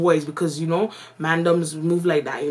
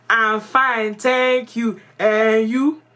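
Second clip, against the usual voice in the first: put-on formal textbook reply in a Ghanaian accent, higher; 5 semitones higher, 4 dB louder, much slower than usual. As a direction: answer politely in a Ghanaian accent. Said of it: "my accent had changed".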